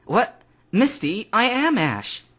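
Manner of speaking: stunned he isn't recognised; confused protest. A narrator's reading. Young Ash confused.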